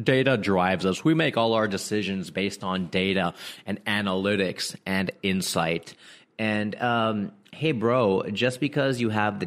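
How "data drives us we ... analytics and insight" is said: lightly put-on corporate boasting; mock company spokesperson. Company bragging about being data-driven, lightly mocking voice. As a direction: lightly parody a self-satisfied company line. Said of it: "I'll always hear things like".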